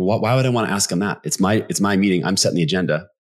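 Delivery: resistant, protesting, pushing-back tone. Retelling how sellers push back on the question: imitating a pushback from sellers. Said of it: "sellers that will push back and be like".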